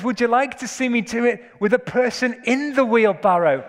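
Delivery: a touch of the showman, pitched high; lightly hammed-up pitch to an audience; showman's call. Preacher voicing the tightrope walker to the crowd, showman's call.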